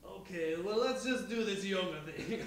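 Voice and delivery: lightly voiced robot. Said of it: "I'm just gonna drop the voice".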